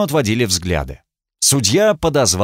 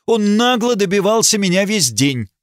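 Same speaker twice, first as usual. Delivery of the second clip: much higher, clear ringing accusation; 10 semitones higher than usual. Acted. Lady accusing the marquis before the court. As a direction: ring it out to the whole crowd. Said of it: "звонким, как серебряная труба, голосом".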